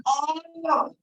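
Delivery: high mock cry of pain. Boy being stitched by the doctor, a high yelp of pain. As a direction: yelp as the needle goes in. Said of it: "And I cried".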